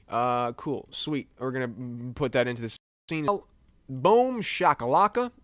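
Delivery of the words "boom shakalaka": slow, loud, higher boom shakalaka; drawn-out celebratory call; excited shout. Acted. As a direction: belt it like a hype announcer. Celebrating placing image.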